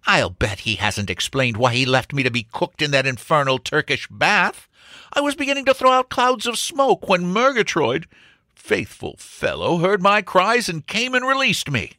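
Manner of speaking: blustering complaint climbing high; indignant baronet. Acted. Sir Jasper was left cooking in a bath, indignant. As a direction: work up into high-pitched outrage.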